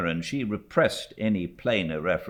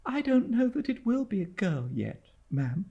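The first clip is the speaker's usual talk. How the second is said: innocent. A narrator's reading. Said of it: "said my mother innocently".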